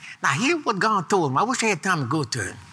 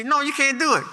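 firm refusal; 7 semitones higher than usual. Acted. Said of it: "You say".

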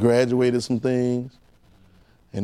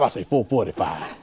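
laughing; 6 semitones lower, 5 dB quieter than usual. Acted. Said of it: "that's how Jesus would do".

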